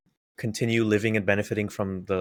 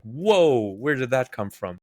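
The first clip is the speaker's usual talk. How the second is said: surprised whoa; 3 semitones higher, 4 dB louder, slower than usual. Retold or imitated. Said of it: "they just drop something and like".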